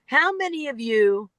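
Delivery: lightly voiced speaker's question opener; just read the stock opener "How many of you"; quoting a cliché opener. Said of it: "start a speech with".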